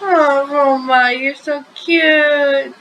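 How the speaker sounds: slow, drawn-out cooing; fawning affection. Acted. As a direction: gush slowly over someone adorable. Spain fawning, trying to hug Romano.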